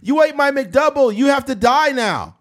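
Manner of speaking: hammed-up deadly outrage; mock furious. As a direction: pretend rage over a burger.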